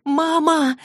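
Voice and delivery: put-on girl shrieks down the dead line; shrieking. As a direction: scream for mum into the phone. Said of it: "завизжала в трубку Клэри".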